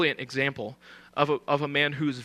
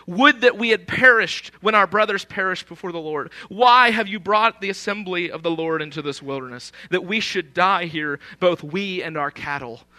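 raised, mild mock protest opening strong, then easing; mildly quarrelsome; 3 dB louder than usual. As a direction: read out an aggrieved complaint with a touch of drama. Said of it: "quarreled with Moses".

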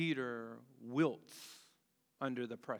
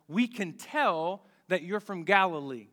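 accusing crowd; 4 semitones higher, 7 dB louder than usual. Acted. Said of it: "The people tell him".

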